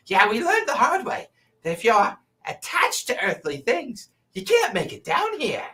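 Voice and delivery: high sneering goblin miner; nasty nasal goblin sneer. Acted. Goblin miner speaks to party.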